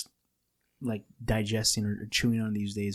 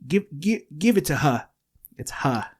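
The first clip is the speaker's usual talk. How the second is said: put-on New York accent; 5 semitones higher than usual. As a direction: ham up a New Yorker saying "her". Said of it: "when they say her".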